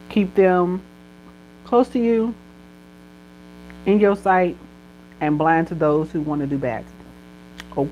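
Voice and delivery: earnest blessing over the listeners; prayer. Acted. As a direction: speak it like a heartfelt prayer. Speaks a blessing over viewers.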